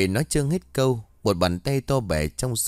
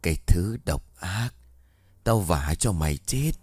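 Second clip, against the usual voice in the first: eerie ghost voice; 4 semitones lower than usual. Acted. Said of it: "giọng nói để ma mị".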